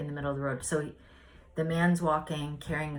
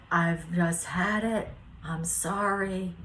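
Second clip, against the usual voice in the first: retold exasperation; 2 semitones higher, slower than usual. Acting out fed-up man's answer.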